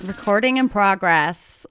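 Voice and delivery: slow attempt at an American accent. Podcaster copying the recording notice, attempted American accent. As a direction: mimic an automated notice in a wobbly American accent. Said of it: "I can't do American accent".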